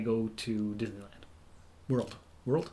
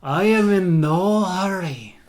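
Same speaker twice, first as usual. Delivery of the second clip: put-on loud, very drawn-out Russian accent; big, unhurried Russian lover; Boris; 5 semitones higher, 6 dB louder, much slower than usual. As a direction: stretch every word in a hammed-up Russian accent. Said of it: "those are my accents".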